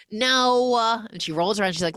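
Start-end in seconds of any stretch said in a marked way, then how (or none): 0.0-0.8 laughing protest. Retold or imitated. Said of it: "And Khaleesi's like".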